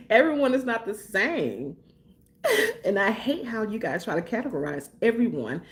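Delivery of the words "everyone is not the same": laughing. Real, not acted. Laughing repeat of point.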